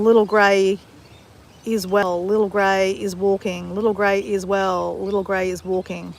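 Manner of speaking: slow, calm chant of an affirmation; spoken affirmation. Shown as a demonstration. Reciting her morning affirmation, slow and calm. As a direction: repeat it gently like a mantra. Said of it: "my affirmation I was saying this morning".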